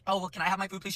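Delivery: gentle little request; sweet girl. Retold or imitated. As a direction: imitate a sweet girl asking politely. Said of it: "she was really sweet".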